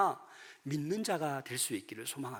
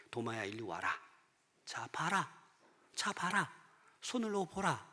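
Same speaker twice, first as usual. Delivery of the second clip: very soft, tender acted Jesus; quiet, patient beckoning with pauses; gentle invitation; 9 dB quieter than usual. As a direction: coax the doubter closer, hushed. Jesus gently inviting doubting Thomas.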